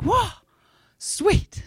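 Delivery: high, airy exclamation; mock enthusiasm. Patient hearing slim odds from doctor, high mock cheer. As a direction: react in a high, light voice. Retold reaction to poor odds.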